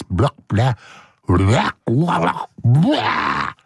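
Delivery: silly blah-blah noises, swooping up and down; babbled nonsense. Pretend. Host goofing off between takes, silly babbling. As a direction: babble nonsense syllables like a goofy warm-up. Vocal warm-up nonsense in outtakes.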